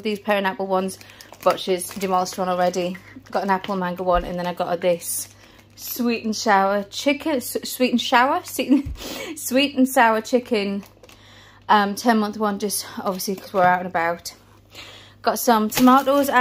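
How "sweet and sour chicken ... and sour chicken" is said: slow, stumbling over the words and laughing; tongue-tied stumble. Real, not acted. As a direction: trip over the phrase, then laugh it off.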